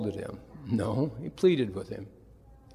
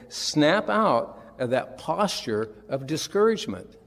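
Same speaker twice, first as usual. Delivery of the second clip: slow emphatic; 3 semitones higher than usual. Shown as a demonstration. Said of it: "It's basically saying".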